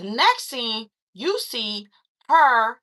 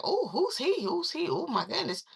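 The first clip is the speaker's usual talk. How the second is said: mock gushing friends; 4 semitones higher, 7 dB quieter than usual. Daughter's friends asking who he is, mock gushing. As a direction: imitate admiring friends with sing-song pitch.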